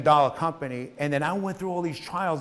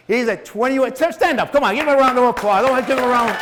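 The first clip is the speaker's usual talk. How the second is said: calling out; 7 semitones higher, 9 dB louder than usual. Real, not acted. Calling audience to applaud.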